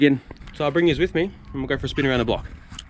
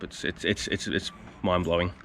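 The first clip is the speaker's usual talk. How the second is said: choked up; 3 semitones lower, 6 dB quieter than usual. Real, not acted. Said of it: "I don't know how to bring my emotions across".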